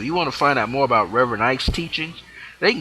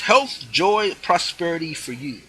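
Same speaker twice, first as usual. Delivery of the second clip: raised-pitch preacher catchphrase; imitated preacher's blessing, pitched up; Reverend Ike; 6 semitones higher than usual. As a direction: proclaim it high, opening strong. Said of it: "as he would say".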